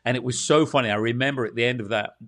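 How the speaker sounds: ordinary talk, nothing marked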